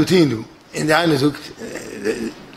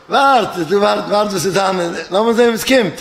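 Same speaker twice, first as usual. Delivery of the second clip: higher-pitched, eager plea to hold on; urging to wait; 4 semitones higher than usual. Acted. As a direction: urge an impatient companion to hold off. Character urges impatient others to wait. (דרינגענד אויפהאלטן)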